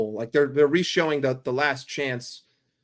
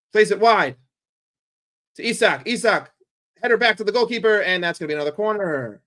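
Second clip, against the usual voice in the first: rising, excited match commentary; live play-by-play; 3 semitones higher, 3 dB louder than usual. Real, not acted. Streamer calling Liverpool's attack for chat, excited play-by-play. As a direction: call the attack as it builds.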